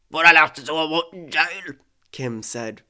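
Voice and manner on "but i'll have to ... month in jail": louder, raised-pitch angry protest. Acted. Scammer told there is no more money, angry protest. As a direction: push it out hard and angrily. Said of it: "Oh, he sounded angry".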